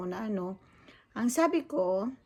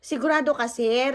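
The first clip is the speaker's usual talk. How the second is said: retold challenge; 3 semitones higher, 5 dB louder than usual. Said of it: "Sabi ko".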